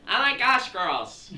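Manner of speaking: high, loud hammed-up party-girl shriek; Snooki. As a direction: squeal to the girls in a mock excited voice. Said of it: "Snooki's the Jersey Devil".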